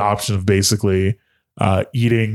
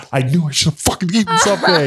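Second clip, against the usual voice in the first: quick, higher-pitched mock exasperation; frustrated self-reproach; 7 semitones higher, faster than usual. Man cramping blames himself, mock frustrated. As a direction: kick yourself in a rush.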